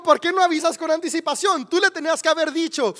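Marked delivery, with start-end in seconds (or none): 0.0-1.7 wife raises her voice to correct him; exasperated louder repeat. Retold or imitated. Wife repeats the driver's words, exasperated and loud. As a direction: repeat it higher and louder, stressing "no". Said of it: "Te dijo".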